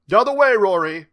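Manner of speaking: high, loud call down a hallway. A narrator's reading. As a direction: redirect a pupil from a distance. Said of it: "Mister Bates called out".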